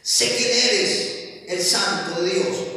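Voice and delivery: loud, high, dramatic demon outcry; preacher voicing the demon's loud cry. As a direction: shout it as the possessed man. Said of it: "que dio a voces", empezó a gritar".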